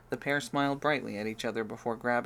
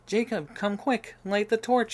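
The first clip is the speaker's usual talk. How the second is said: loud, urgent call, pitched higher; urgent shout; 10 semitones higher, 7 dB louder than usual. Acted. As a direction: yell for help right now.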